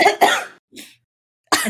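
put-on slow drawn-out New York accent. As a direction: drag it out like a New Yorker. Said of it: "Wasn't an accent".

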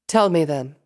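loud, commanding princess; regal demand. A narrator's reading. Princess Luna pressing Sable to confess, regal. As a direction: demand it as royalty.

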